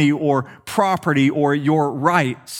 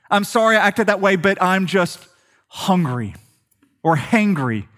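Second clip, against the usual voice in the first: faster, brushed-off excuse; quick mock excuse; 4 semitones higher than usual. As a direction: rattle off the excuse lightly. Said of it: "Have you ever said this".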